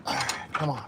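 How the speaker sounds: threading a needle. Real, not acted. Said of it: "I'm fighting with this".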